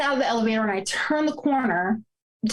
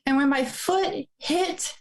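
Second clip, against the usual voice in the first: trying not to cry; 3 semitones higher than usual. Real, not acted. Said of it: "I'm gonna try not to cry".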